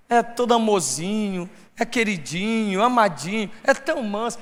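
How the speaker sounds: soft, cooing imitation of meekness; mock sweet-talking. Churchgoer admiring how gently someone talks, mock sweetness. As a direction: lilt the endearments very gently. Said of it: "Eu vi o jeito que ele fala".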